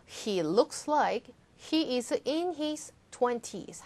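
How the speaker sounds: slow, clear model sentence; slow model reading. Shown as a demonstration. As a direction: read slowly, every word clear. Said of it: "다시 한번 읽어볼게요".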